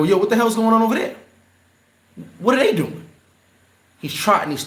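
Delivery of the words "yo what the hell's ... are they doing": retold shout. On the beach, calling out at what he sees, raised alarmed yell. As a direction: yell it over like you can't believe it. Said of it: "I go".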